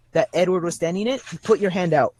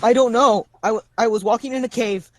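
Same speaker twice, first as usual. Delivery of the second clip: higher, fast, flustered lost soul; flustered lost man; 4 semitones higher than usual. Acted. A lost man tells the party how he got here, lightly higher and flustered. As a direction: rush it out, confused and scared. GM voices NPC Moose Juice.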